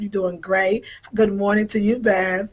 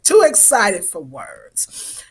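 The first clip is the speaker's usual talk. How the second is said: breathless, slow whisper; much slower than usual. Real, not acted. Host telling live viewers she's overexcited, whispered. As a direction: hush it like a secret. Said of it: "I'm too excited".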